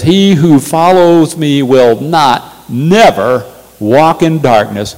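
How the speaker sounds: slow, weighty stress on not and never; emphatic quote. Acted. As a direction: lean hard into not and never. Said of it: "very emphatic way of".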